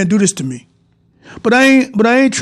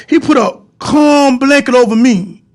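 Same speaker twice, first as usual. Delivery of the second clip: tearful; 3 semitones higher than usual. Real, not acted. Emotional testimony about God.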